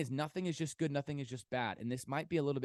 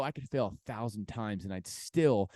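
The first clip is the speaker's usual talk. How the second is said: affirmation; 3 dB louder than usual. Shown as a demonstration. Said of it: "I want you to literally go".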